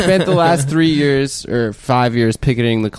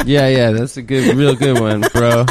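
put-on baby voice; 5 semitones lower, slower than usual. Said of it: "Were you making the baby voice?".

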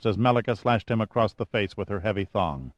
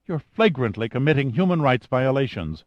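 understated indignation, slightly higher; mild anger; 4 semitones higher than usual. Acted. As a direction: accuse the captors, restrained. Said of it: "said Eva angrily".

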